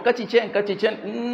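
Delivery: mock a made-up Chinese sound, half in jest. Preacher mocking a fake Chinese imitation to the congregation, lightly voiced. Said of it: "le dijéramos".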